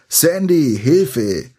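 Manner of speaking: high, loud cry of alarm; scream for help. A narrator's reading. You screaming for Sandy as rats swarm, high and loud. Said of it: "Noch während du schreist".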